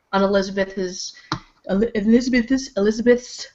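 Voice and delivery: tripping over words with new braces; stumbling speech through fresh braces. Real, not acted. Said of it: "I can't talk".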